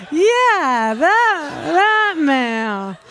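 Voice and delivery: high, sheepish confirmation. Retold or imitated. Sheepish retold reply to officer.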